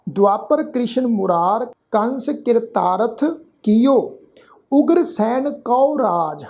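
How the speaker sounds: slow, measured Gurbani reading; scripture recitation. Shown as a demonstration. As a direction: recite in short phrases with drawn-out vowels. Teacher recites scripture for learners.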